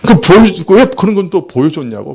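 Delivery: a touch of aggrieved anger; retold angry complaint. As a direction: mildly imitate an indignant protest. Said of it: "막 나한테 화를 내는 거예요".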